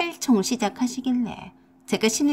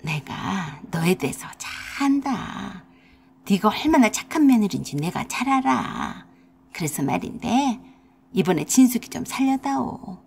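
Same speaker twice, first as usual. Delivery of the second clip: coaxing mother-in-law; 3 semitones lower than usual. Acted. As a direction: sweet-talk her while holding her hands. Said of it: "갑자기 태도를 바꿔서 제 두 손을 잡고서".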